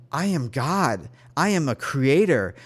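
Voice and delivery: retold declaration, measured and firm; steady, emphatic self-affirmation; repeated affirmation. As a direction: declare it with growing conviction. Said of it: "I kept repeating that over and over".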